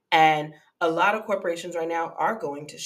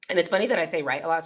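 words around a sip of water; talking between sips; while sipping a drink; faster than usual. Real, not acted. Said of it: "Sorry, I'm drinking water".

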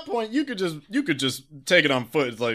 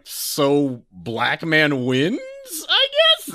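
sarcastic; 4 dB louder, much slower than usual. Retold or imitated. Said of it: "one of my last ones was like".

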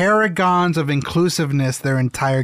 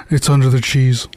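mock Italian; 3 semitones lower, 5 dB louder than usual. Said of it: "All the Italians will be like".

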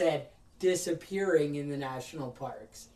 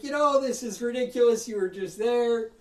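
raised, louder retold rant at the phone agent; chewing out the delivery lady again; retold telling-off; 5 semitones higher, 4 dB louder than usual. Caller scolding delivery company lady, heated and louder. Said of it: "And I lay into the lady".

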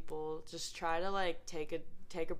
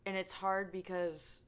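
trailing off; slower than usual. Real, not acted. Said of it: "I lost my train of thought".

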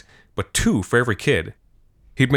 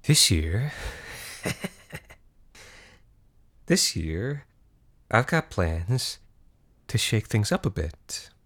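a calm madman savouring his plan; scheming villain; 2 semitones lower than usual. Acted. Sinister villain monologue intro.

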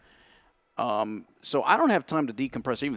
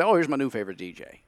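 amused delight; faster than usual. Retold or imitated. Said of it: "And I laugh. I say".

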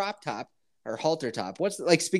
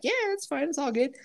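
mock basic girl; 12 semitones higher than usual. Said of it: "formerly known as a basic was like".

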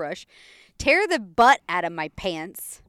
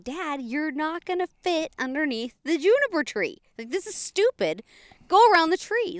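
mild mock yell, rising higher toward the end; retold scolding yell; 6 semitones higher than usual. Daughter warns Dad off the juniper tree, mild retold yell. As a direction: scold Dad, pushing up on the last order. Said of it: "I'm screaming at him".

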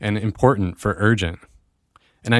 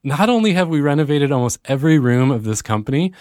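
higher-pitched, real excitement; keyed up and eager, pitched higher; excited; 5 semitones higher than usual. Real, not acted. Host telling listeners about renovating the company, excited. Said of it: "can you hear the excitement in my voice".

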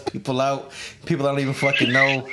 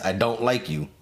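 lower-pitched, deadpan dislike; dead serious; 4 semitones lower, 3 dB quieter than usual. Real, not acted. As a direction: say it dead-ass, no joking. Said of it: "I'm being dead ass".

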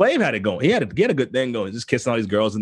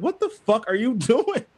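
incredulous; 9 semitones higher, slower than usual. Retold or imitated. Acting out shock at friend's cheek.

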